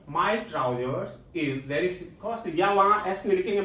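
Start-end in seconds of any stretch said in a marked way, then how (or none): 0.1-2.6 slow dictation. Shown as a demonstration. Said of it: "वहां पे इसकी जगह पे is लिख दिया गया हो".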